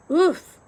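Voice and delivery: startled little oof; soft oof. A narrator's reading. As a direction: grunt as if bumping into something. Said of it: "followed by a soft".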